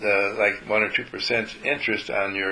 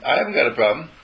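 mock defensive; 6 semitones higher, 4 dB louder than usual. Mock defensive reply to dog.

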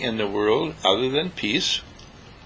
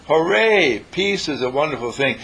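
mock cheer. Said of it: "they shout".

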